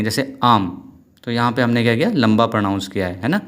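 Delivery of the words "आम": "आम" with a long, held vowel. Shown as a demonstration. Teacher showing students a long vowel, drawn-out "आम". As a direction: stretch out the vowel in "आम". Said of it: "लंबा pronounce करेंगे".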